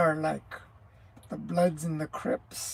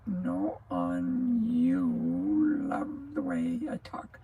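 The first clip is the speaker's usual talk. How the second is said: whisper; much slower than usual. Pretend. Teasing a listener's comment.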